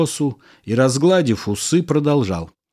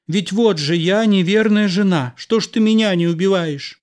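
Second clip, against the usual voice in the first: higher, taunting challenge to the husband; defiant anger; 7 semitones higher than usual. A narrator's reading. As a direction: dare him, bitter and raised. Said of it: "сверкнула глазами жена".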